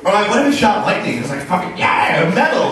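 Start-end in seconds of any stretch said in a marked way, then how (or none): 1.4-2.7 hammed-up rock cheer; mock metal cheer. Flag cheering like a metal fan, hammed-up whoop.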